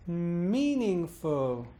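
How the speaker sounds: slow "meaningful" from a long hummed M, arching up then down; extended rise-fall. Shown as a demonstration. Teacher showing three syllables, slowly bounced from a hum. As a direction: bounce once over all of "meaningful". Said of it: "Allow the rise fall".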